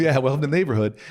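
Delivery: laughing through the line, quick; amused echo with a laugh; laughing repeat. Real, not acted. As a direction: chuckle it back, fast.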